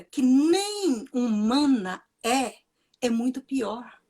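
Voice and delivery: slow, tearful, breaking voice. Real, not acted. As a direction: hold back tears while you say it. Indignant grief over Black women.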